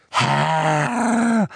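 high, loud croaking elf voice; a servile elf croaking his greeting; bullfrog croak. A narrator's reading. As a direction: croak it out like a bitter old house-elf. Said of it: "krächzte Creature mit seiner Ochsenfroschstimme".

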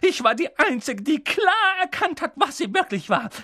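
hohe, keifende Schimpftirade; schimpfend. A narrator's reading. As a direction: lass die Wut aller Jahre raus. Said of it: "fing dann erneut an zu schimpfen". (Tante Petunia schimpft über ihre Schwester)

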